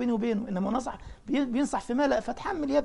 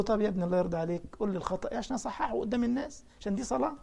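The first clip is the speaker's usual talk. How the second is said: calm; 4 dB quieter, faster than usual. Retold or imitated. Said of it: "فأنا بهدوء كده".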